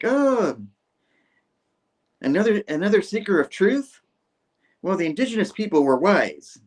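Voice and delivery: high, theatrical musing; hammed-up cameraman. Cameraman greeting a seeker of truth, high theatrical delivery. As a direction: open on a drawn high "oh", then proclaim.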